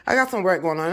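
winded from working; breathless after moving furniture; out of breath. Real, not acted. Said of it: "I'm out of breath".

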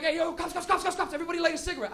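rally the car in a panic; mock panic. Buddy ordering everyone to smoke, mock panic. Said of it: "the guys will be like".

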